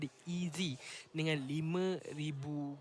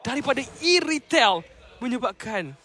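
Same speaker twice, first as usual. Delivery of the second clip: excited play-by-play; 10 dB louder than usual. Acted. Team fight erupts, caster hypes.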